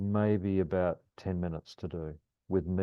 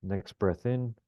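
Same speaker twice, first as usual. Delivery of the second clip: calm grounding exercise; 2 semitones higher than usual. Shown as a demonstration. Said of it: "in four breaths".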